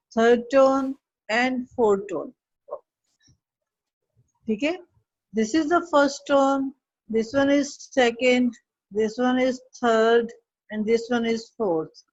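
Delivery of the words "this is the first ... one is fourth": very slow, drawn-out count of the four tones; slowed demo of Chinese tones. Shown as a demonstration. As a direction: stretch each word as you name the tones. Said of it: "Chinese language में four tones होती हैं".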